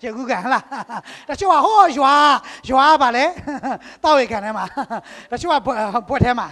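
chuckling through the list; laughing. Real, not acted. Preacher laughing at odd baptism places. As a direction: let the laughs break between phrases.

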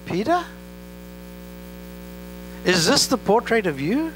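high, incredulous "What? Peter?"; disbelieving rising cry; shocked disbelief. Real, not acted. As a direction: call out in stunned surprise at Peter. Preacher reacts to Peter's denial.

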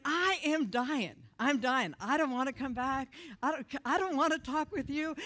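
acted-out agonized refusal; dramatic reluctance. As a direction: dig in your heels, hammed-up. Acting out dread of returning to church.

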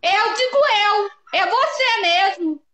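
slow, high-pitched irate retort; real angry yelling. Real, not acted. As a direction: yell it back, drawing the words out. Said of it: "Maria fica gritando com a gente". (gritando irritada, arrastando as palavras)

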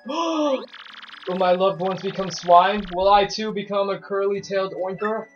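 slow hammed-up worry; mock dramatic. Gamer hams up a villager's fear. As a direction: play up the worry.

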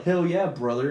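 slightly punched-up wrestler-style bro; mock macho brother. Quoting the neighbor to partner, lightly mocking macho brother voice. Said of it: "He's not Hulk Hogan".

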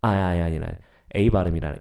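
normal talking voice

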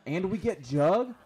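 high, loud, slow amazed cry; thrilled disbelief. Real, not acted. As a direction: stretch it out, can't believe it. Scores the Juggernog perk.

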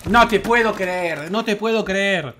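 slow disbelief. Real, not acted. Disbelief after dying.

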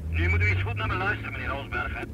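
irritated policeman raising his voice; stern rebuke. Acted. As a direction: put him in his place. Irritated commissioner on phone.

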